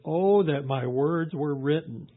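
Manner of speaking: slow, mildly impassioned scripture reading; a measured, heartfelt cry. Retold or imitated. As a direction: read it slowly, with some fervour. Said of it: "Job cries out and says".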